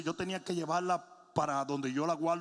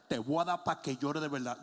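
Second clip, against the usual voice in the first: low, menacing dad voice; threatening father; 6 semitones lower than usual. Retold or imitated. Father threatens his crying son, low and menacing. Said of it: "Decía".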